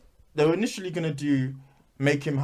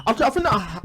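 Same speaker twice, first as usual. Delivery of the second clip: higher, stammering through a laugh; laughing hard; 8 semitones higher than usual. Real, not acted. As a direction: try to speak through real laughter. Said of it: "Why were you laughing so deep there?".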